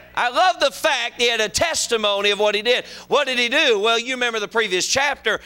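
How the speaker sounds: animated pulpit storytelling, voice lifted; preaching. Real, not acted. Preacher retelling Elijah's showdown, animated preaching.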